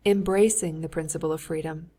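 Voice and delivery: embracing stressed firmly at the start; emphasis on embracing. Acted. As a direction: hit the word embracing. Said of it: "with emphasis on the word embracing".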